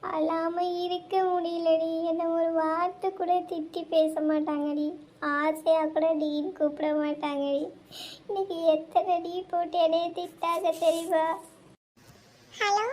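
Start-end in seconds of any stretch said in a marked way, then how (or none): 0.0-11.2 crying. Acted. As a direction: sob out the hurt. Crying girl complains about insults. (அழுதுகொண்டே மெதுவாக)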